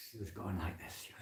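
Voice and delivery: usual speaking voice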